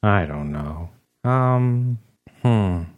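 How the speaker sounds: lightly voiced gloomy office dweeb; deadpan sad sack, slow in places; sad Ferb voice. Ferb McDuff tells his grandmother story, lightly voiced and glum. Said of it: "that's not a very good voice".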